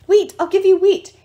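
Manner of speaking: very loud, high angry shout; grain spirit's yell. A narrator's reading. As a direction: threaten the enemy at full voice. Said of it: "One grain spirit yelled".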